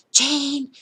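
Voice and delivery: loud, high imitated child's scream; screaming for help. Son screaming to the neighbor while chased, loud high yell. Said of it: "Kevin is screaming".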